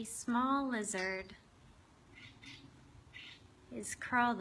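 unhurried meditation guide, long pauses between phrases; guided meditation. Acted. Host guiding listeners to open their hearts to a lizard, guided meditation. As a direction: lead them gently inward, leaving space after each phrase.

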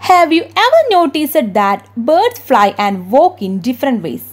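very slow, deliberate English read-aloud; textbook reading. Acted. Teacher reading the English textbook aloud to her class, slowly. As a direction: read the book's question out word by word.

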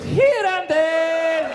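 very slow, stretched "here and there"; vague drawn-out dodge. Retold or imitated. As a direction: drag it out to avoid answering. Evasive answer drawn out.

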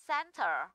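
"center" stressed on CEN; first-syllable stress. Shown as a demonstration. Teacher gives noun example, first-syllable stress. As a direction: say "center" with weight on CEN, light ending. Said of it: "thì rơi vào cen".

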